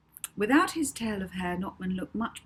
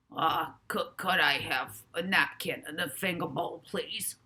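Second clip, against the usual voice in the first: posh request. A narrator's reading. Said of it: "eat like a queen".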